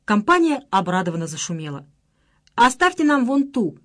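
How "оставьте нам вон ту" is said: loud, high jeering call; mocking shout. A narrator's reading. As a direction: jeer at her across the room. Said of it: "закричала Марина". (громкий насмешливый выкрик)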